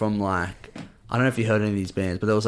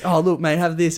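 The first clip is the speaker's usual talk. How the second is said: raised-pitch matey offer; generous festival stranger; 6 semitones higher than usual. Retold or imitated. Stranger handing a Red Bull vodka over, high chummy imitation. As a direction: imitate a bloke pressing a drink on someone.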